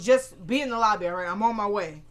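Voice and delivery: loud retold order; mad. Mad boyfriend ordering her to the lobby, angry. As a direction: imitate an angry man giving curt orders. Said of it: "Benny's mad as heck".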